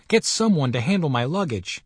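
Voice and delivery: a touch of a brisk command; lightly voiced curt instruction; brisk order. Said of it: "he said briskly".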